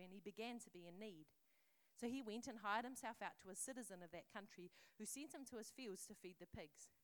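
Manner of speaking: gently paced storyteller reading a parable aloud; lightly dramatized scripture reading; storytelling voice. A narrator's reading. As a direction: tell it like a bedtime story to the congregation. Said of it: "I'll use my best storytelling voice".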